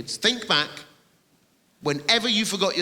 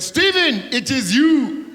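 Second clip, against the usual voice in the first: high loud surprised mum; loud high mock mother voice; mum's voice; 11 semitones higher, 7 dB louder, slower than usual. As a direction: squeal it like a mum recognising him.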